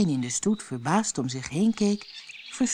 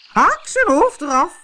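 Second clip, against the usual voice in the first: screaming queen; 12 semitones higher, 10 dB louder than usual. A narrator's reading. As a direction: roar the sentence at them. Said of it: "schreeuwde de koningin".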